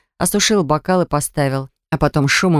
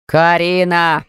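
loud call; 3 dB louder, much slower than usual. Acted. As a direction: call her name loudly from the sofa. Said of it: "Тут же заорал Баграт".

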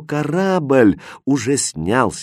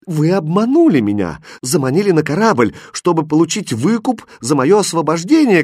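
loud, high outraged cry; shouting accusation; 6 semitones higher, 4 dB louder than usual. Acted. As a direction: hurl the accusation at him. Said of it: "кричала она".

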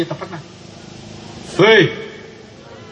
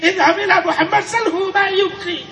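voice of God; 11 semitones higher than usual. Acted. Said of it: "Allah utus malaikat Jibril".

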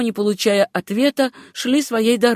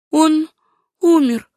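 higher-pitched heroine's voice; young woman's voice; 7 semitones higher, 4 dB louder, slower than usual. Acted. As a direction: answer as Susanna, pitched up. Susanna answers the doctor in fiction.

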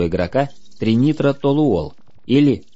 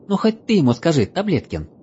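elf voice; 8 semitones higher than usual. Acted. Elf pleading with friend.

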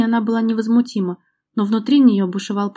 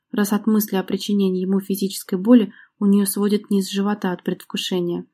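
ordinary delivery, nothing marked

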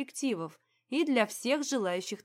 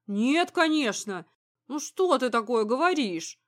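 emphatic, slightly raised protest; heated reassurance; 4 dB louder than usual. A narrator's reading. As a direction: protest fervently, leaning on the words. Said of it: "тут же заверил горячо". (горячо заверяя жену)

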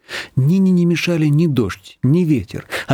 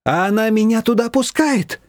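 a touch higher, indignant retort; Nina's voice; 8 semitones higher than usual. A narrator's reading. Nina protesting to Shushana, mildly indignant. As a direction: snap back lightly.

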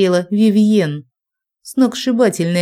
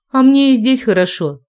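higher, louder sulky defiance; sullen defiance; 6 semitones higher, 4 dB louder than usual. A narrator's reading. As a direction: dig in your heels, sulking. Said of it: "набычилась я".

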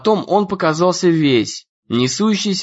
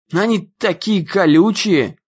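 grumbling; 3 semitones higher than usual. A narrator's reading. Ian grumbles about the itchy borrowed trousers. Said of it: "ворчал Иэн".

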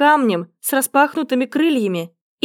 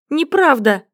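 shrill shriek. A narrator's reading. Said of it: "истошный визг".

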